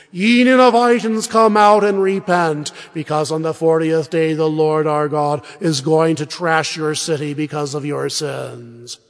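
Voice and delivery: calling out. Acted. The prophet Jonas calling the city of Nineveh to repent, loud and proclaiming. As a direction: cry out the warning to the whole city.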